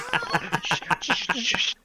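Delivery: rhythmic shushing rustle; a string of loud, bursting shushes; imitated rustling branch. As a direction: make loud shaking-leaves noises.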